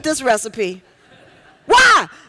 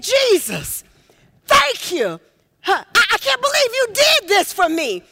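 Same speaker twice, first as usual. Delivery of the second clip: higher, voice catching with tears of gratitude; tearful thanks; 6 semitones higher than usual. Retold or imitated. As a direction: thank him as if overcome, almost crying. Healed leper thanking Jesus.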